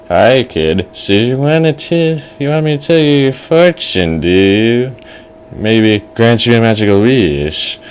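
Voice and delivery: put-on lilting, odd old-man voice; kooky fortune teller. Old fortune teller greets the kid, kooky and coaxing. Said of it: "He's like".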